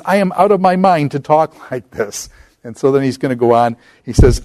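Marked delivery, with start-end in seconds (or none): 0.0-2.3 higher-pitched dry sarcasm with a laugh in it; sarcastic, jaded. Retold or imitated. Paul defending himself, jaded and sarcastic. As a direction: roll your eyes at your own bragging. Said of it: "in a kind of a sarcastic, jaded kind of way".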